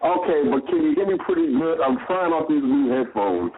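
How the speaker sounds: distant phone-line sound; on speakerphone. Real, not acted. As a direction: voice over a speakerphone. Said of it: "sounds like you're on a speakerphone".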